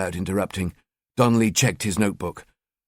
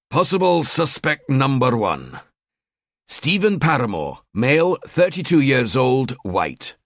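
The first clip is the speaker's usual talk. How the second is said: game show host; 3 semitones higher than usual. Acted. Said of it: "sounded like a mock game show host".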